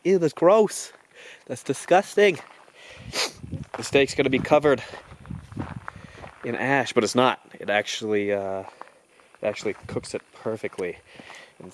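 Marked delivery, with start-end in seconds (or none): 0.0-6.9 disgusted. Pretend. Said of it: "you might be thinking".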